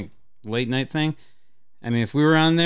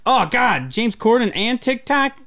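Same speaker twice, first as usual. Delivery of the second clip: mock horror; 11 semitones higher, 6 dB louder than usual. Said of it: "I'm like".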